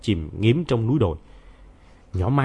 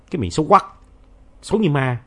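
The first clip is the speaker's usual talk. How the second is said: put-on mild childish insult; 4 semitones higher, faster than usual. A narrator's reading. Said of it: "Hai đứa nó chửi tôi vậy nè".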